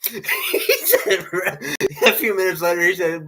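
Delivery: high, giggly words breaking through laughter; laughing while talking. Real, not acted. Telling friend's cigarette mishap, laughing while talking. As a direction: struggle to tell it through laughs.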